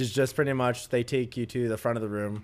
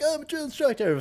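much higher mocking squeak; mock instructor; 13 semitones higher than usual. Recruit mocking the drill instructors, high sarcastic squeak. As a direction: sneer it in a silly high voice.

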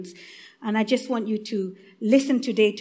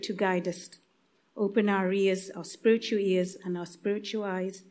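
spoken prayer. Real, not acted. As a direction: pray gently on behalf of those listening. Leads the congregation in prayer.

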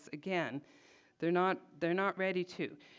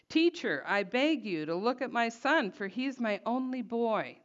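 louder, higher desperate plea; anguished father; 4 semitones higher, 5 dB louder than usual. Acted. Father pleading with Jesus to heal his son, anguished. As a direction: beg for your only son. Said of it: "you can hear the anguish of this father".

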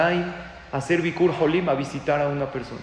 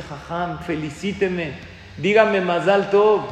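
retold smiling good news; 4 dB louder, slower than usual. Young man greeting his rabbi with news, retold joyful excitement. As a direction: swell into a proud, drawn-out call for congratulations. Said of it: "con una sonrisa en la boca".

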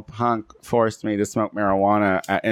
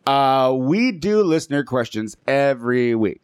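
slow, spaced-out stoner voice. Real, not acted. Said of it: "God, you talk like a weirdo".

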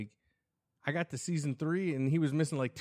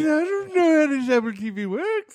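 loud, high hammed-up Irish accent; loud mock Irish brogue; 8 semitones higher, 8 dB louder than usual. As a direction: bellow it like an outraged Irishman. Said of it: "That's a good Irish accent".

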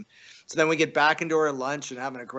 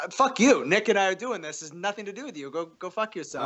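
retold telling-off; 5 semitones higher than usual. Telling off the publicist.

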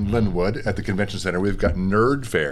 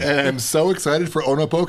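bright, eager delivery; peppy; 5 semitones higher than usual. Real, not acted. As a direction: say it with real pep. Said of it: "he said it really peppy".

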